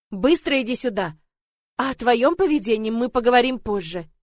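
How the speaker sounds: loud, stern commands; angry scolding. Acted. Father scolding his daughter, loud and stern. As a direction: scold her into obeying.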